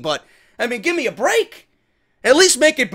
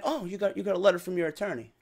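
mocking; 9 dB quieter, faster than usual. The speaker mocking Carmella's letter.

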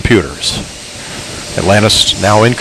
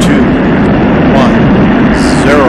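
excited announcer; 6 semitones higher, 5 dB louder than usual. Real, not acted. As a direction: call the liftoff with rising excitement. Commentator calls the shuttle liftoff.

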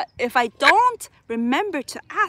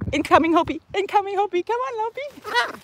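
high calling voice; 7 semitones higher than usual. Real, not acted. Calling the returning bird.

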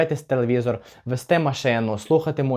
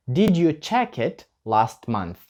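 slow, clear repeat of the question; slower than usual. Shown as a demonstration. Teacher repeating the question for the class. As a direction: say it again slowly. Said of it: "Ще раз".

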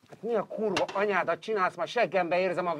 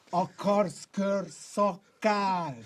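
very slow drawn-out taunt; much slower than usual. Real, not acted.

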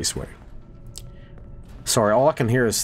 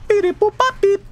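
robot-like singer; 5 dB louder than usual. Retold or imitated. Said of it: "the singer sounds like a robot on that one".

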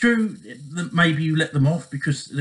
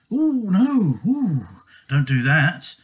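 mock protest; 2 semitones higher, much slower than usual. Abuser mocking the victim for hitting back, mock outrage. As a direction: mimic an abuser faking outrage.

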